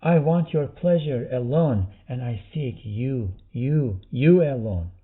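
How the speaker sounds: fervent prayer with forceful bursts; supplication. Acted. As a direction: declare devotion, leaning hard on the last words. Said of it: "following this supplication".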